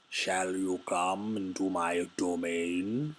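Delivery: slow, theatrical voice of a lamprey man; homoerotic lamprey man. Pretend. Streamer voicing a card creature, slow and hammy. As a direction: ham up a seductive sea creature.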